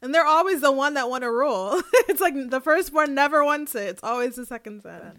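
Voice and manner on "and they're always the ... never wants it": words bubbling through laughter; laughing while talking. Real, not acted. Cohost laughing as she jokes about second sons.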